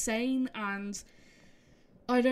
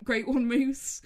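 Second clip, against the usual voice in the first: laughing; 4 dB louder, slower than usual. Real, not acted. Laughing jab at unlucky moose.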